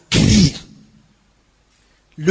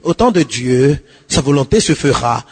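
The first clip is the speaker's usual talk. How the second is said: mocking bluffer; 5 semitones lower than usual. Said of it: "prier en bluffant".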